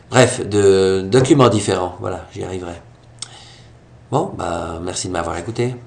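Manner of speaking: stuffy blocked nose from a cold. Real, not acted. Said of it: "J'ai le nez bouché".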